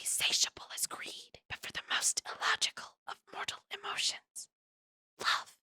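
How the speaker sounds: a creepy breathy whisper; menacing whisper. A narrator's reading. The sage leaning close to Violet, whispering menacingly. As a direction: lean in and whisper the threat. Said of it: "he whispers".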